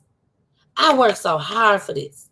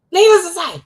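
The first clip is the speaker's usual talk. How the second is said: needless to say, higher and louder; louder emphatic repeat; 11 semitones higher, 6 dB louder than usual. Real, not acted. To her viewers, repeating for effect, loud and high. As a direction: punch needless hard the second time.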